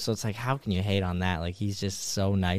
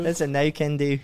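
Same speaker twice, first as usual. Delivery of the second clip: mock British turn of phrase; British accent; 3 semitones higher than usual. Shown as a demonstration. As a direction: play with a put-on British accent. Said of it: "with a British accent".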